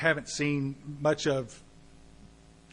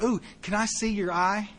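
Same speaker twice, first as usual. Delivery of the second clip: nosy stranger; 5 semitones higher than usual. Retold or imitated. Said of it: "somebody came up and says".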